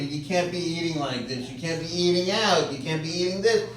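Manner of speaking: lightly mocked lecturing tone; imitating a nagging lecture. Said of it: "she's lecturing me".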